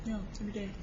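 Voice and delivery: mocking someone. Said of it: "they're like".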